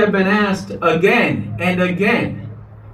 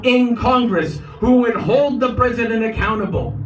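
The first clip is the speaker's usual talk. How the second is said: roaring rallying speech; 4 semitones higher than usual. Real, not acted.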